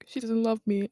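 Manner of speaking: breathy whispered self-pity, half-joking; whispered mock sulk. A teenager feeling unloved after being disciplined, whispered mock sulk. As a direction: hush it like a wounded teen. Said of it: "I was like".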